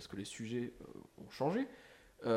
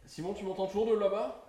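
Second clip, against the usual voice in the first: calling from far away; 8 semitones higher, 4 dB louder than usual. Real, not acted. Calling to someone in another room.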